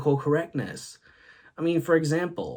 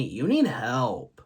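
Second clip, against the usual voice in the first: annoyed retort; much slower than usual. Retold or imitated. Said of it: "got really annoyed with me and said".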